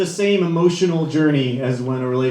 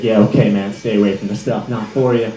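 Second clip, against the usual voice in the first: dismissive friend; 6 semitones lower than usual. Retold or imitated. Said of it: "You're always like".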